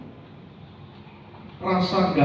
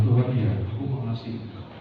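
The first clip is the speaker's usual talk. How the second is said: humble Peter; 4 semitones lower, 7 dB quieter, faster than usual. Acted. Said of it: "Dia sudah menunduk mungkin".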